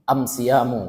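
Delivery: am siyamu with am stressed, not as; am in place of al. Shown as a demonstration. Teacher shows dialect am siyamu. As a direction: hit the am in am siyamu. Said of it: "Bukan asyamu".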